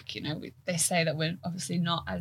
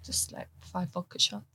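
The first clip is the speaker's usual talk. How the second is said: deadpan joke; 7 dB quieter than usual. Real, not acted. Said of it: "I'm joking".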